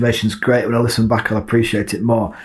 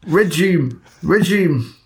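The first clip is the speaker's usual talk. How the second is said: "Regime" tried in higher-pitched Geordie; attempted Geordie accent; 4 semitones higher, much slower than usual. Co-host struggling with the word "Regime", Geordie accent. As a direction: have repeated goes at "Regime" in Geordie. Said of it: "say regime in a Geordie accent".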